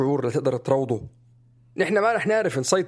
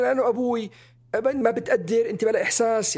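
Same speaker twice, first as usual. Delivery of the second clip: imitating mother's harsh comeback, pitched high; retold rebuke, raised in pitch; harsh reply; 8 semitones higher than usual. Mother answering her puzzled child about crying, retold harsh high-pitched rebuke. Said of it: "كان يجي الرد قاسي".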